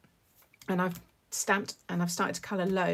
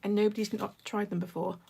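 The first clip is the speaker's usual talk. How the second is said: talking while crunching crisps; crunching chips. Real, not acted. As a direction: mouth full of crunchy snack. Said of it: "Sorry for the crunching".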